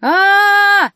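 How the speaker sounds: loud high frightening shriek; broom's furious loud scream; terrible scream. Acted. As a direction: let out a dreadful scream. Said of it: "разнеслось по саду так громко и страшно".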